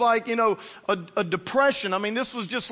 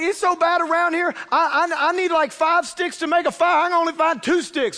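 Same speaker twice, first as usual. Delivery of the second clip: higher, louder exasperated poor widow; widow complaining; 5 semitones higher, 4 dB louder than usual. Retold or imitated. The widow telling Elijah how poor she is, exasperated. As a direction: plead your poverty, exasperated.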